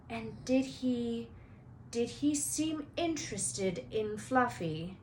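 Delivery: slow, carefully calm question; forced calm. Acted. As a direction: keep your voice calm while worried. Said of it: "trying to keep his voice calm".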